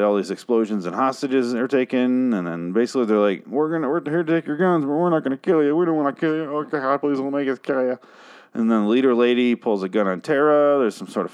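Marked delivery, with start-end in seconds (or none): 3.5-8.0 higher, hammed-up pleading raiders; lightly voiced panicky raiders; mock raider plea. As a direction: beg them not to make you shoot, half-jokingly. Raiders demanding guns, mock pleading.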